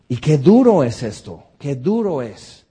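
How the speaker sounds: loud cry of how hard it is; loud lament. Real, not acted. Preacher lamenting to the congregation, loud and heavy. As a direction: cry out the pain of it.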